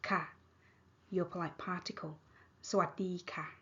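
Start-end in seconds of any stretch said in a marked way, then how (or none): 2.7-3.5 ค่ะ falling at the end of สวัสดีค่ะ. Shown as a demonstration. Teacher modelling hello for female speakers, falling tone. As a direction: let ค่ะ drop in pitch. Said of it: "with falling tone".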